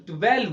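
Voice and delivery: "ट्वेल्व" as tu-WELV, closing on a V; lip-to-teeth V ending. Shown as a demonstration. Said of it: "तो आपका होंठ नीचे जाएगा".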